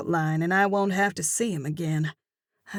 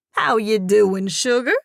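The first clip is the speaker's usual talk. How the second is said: louder, higher sugary greeting; gushing southern cashier; 3 semitones higher, 7 dB louder than usual. Acted. Cashier Dimples greeting the narrator, sugary. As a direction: sweet-talk her like a gossip.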